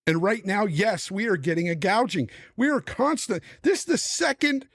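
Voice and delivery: angry gamer ranting, voice rising; pissed off rant. Real, not acted. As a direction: vent real anger at the corporations. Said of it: "I'm pissed at this".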